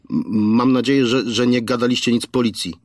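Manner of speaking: menacing caller, stammering a little; a thug making a threat over the phone; kidnapper on the phone. Acted. Kidnapper threatening the parents on speakerphone, menacing.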